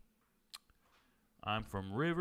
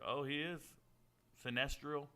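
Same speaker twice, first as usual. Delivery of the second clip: ordinary talk, nothing marked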